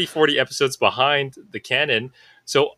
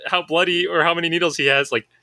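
exasperated insistence; 5 semitones higher than usual. Retold or imitated. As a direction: insist like a frustrated kid, pitched up. Retelling heated argument with friend.

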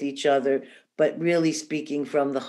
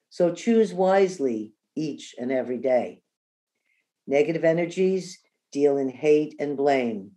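measured verse with pauses between lines; unhurried recital, each line settling downward; poem reading. Real, not acted. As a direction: read a heartfelt rhyme aloud, letting each line fall.

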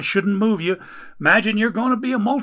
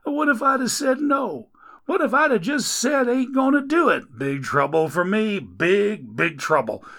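higher, louder, fast grumbling at the Lord; griping complaint; 6 semitones higher, 4 dB louder than usual. Acted. Man hauling Dagon upstairs complains to God, griping loudly. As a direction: gripe up the stairs at heaven. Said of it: "the complaints didn't stop".

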